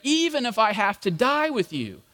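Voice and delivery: insistent, overconfident promise; brash declaration. Acted. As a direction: declare it boldly, hitting "never". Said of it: "it probably was just this another brash statement".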